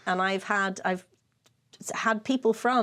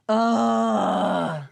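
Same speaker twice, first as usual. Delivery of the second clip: crowd groan; 4 dB louder than usual. Retold or imitated. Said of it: "the groan heard around the world".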